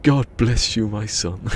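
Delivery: hammed-up loud benediction; priest's blessing. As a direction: bestow it grandly like a priest. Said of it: "He goes".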